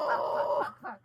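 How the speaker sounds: high, sudden panicked swearing; panicked cursing. Real, not acted. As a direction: blurt it in alarm. Spider escapes.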